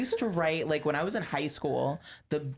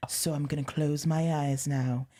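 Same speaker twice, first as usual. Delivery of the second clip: laughing; slower than usual. Retold or imitated. Reading old emo poem.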